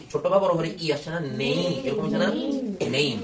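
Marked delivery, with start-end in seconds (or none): 1.4-1.6 "নেই" as ne sliding into a small i; "নেই" with e joined to i; small i glide. Shown as a demonstration. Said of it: "ছোট্ট করে ই". 2.9-3.2 "নেম" said as "neyim", a small i before m; "নেম" with a gliding "ei" vowel; small i glide. Shown as a demonstration. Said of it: "এরকম হচ্ছে কি না?".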